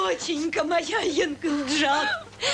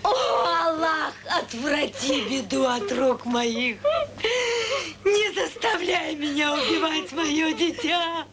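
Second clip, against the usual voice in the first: crying shout. Acted. Mother cries out to God.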